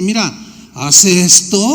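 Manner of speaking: "Mira, haz esto" said simply and gently, a little slow; simple and gentle. Acted. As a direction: offer "Mira, haz esto" as plain friendly advice. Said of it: "de manera tan sencilla".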